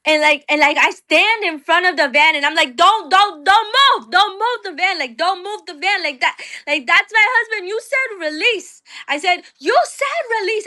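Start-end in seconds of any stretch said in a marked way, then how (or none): 2.8-8.8 block the van and yell; screaming at the van. Retold or imitated. Wife standing before the van, higher frantic screaming. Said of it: "And I'm screaming". 9.6-10.7 block the van and yell; screaming at the van. Retold or imitated. Wife standing before the van, higher frantic screaming. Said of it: "And I'm screaming".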